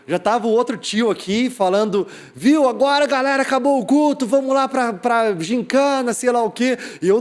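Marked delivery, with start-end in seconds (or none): 2.3-6.8 higher-pitched imitation of a man calling everyone out; lightly voiced announcement, pitched up; man rounding up the crowd. Man telling the youth that worship is over, mock calling out.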